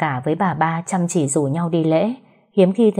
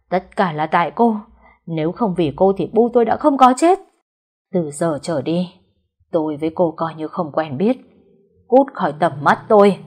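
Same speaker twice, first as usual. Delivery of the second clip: hateful anger; 4 dB louder than usual. Acted. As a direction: drive her away in rage. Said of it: "nhìn Liên đầy thù hận".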